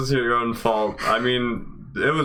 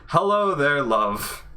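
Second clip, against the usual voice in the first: smooth British greeting; 2 semitones higher, slower than usual. Acted.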